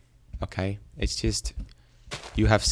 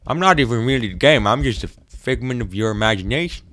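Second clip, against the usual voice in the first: game's voice; 6 dB louder than usual. Acted. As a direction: speak as the game itself. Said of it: "you're making this voice".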